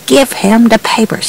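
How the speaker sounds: mild mock yell at the narrator; retold holler. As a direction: sheriff barking an order, lightly imitated. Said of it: "He screamed at me, just hollered at me".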